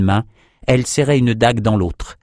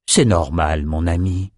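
low, tender reassurance; gentle, low-pitched sympathy; soothing; 5 semitones lower than usual. Acted. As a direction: comfort a friend in a lowered voice. Nathan comforts his friend.

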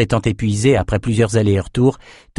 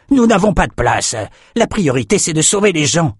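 raised, higher-pitched insistence; firm objection; 7 semitones higher than usual. A narrator's reading. Boat owner turning away animals, firm objection. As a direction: lay down the rule, voice pitched up.

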